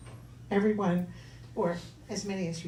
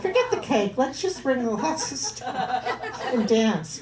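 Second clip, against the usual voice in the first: laughing; 6 semitones higher, 6 dB louder, slower than usual. Real, not acted. Laughing about a party.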